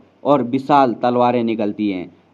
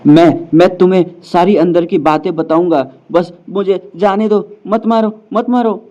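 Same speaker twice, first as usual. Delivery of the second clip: desperate begging; 2 semitones higher, 3 dB louder than usual. Acted. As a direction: beg for your life as the panic builds. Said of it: "वो गिड़गिड़ाता है". (गिड़गिड़ाते हुए, आख़िर तक ऊँची और तेज़ होती आवाज़)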